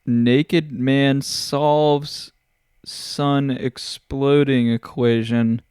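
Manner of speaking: drawn-out trailer announcer, every word slow; dramatic movie pitch voice. Pretend. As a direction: pitch it like an epic film trailer. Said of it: "I would be like".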